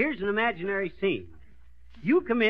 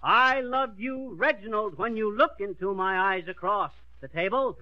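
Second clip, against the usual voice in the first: model line reading. Shown as a demonstration. Coach gives the pupil her line, dramatic. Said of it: "Now say this line".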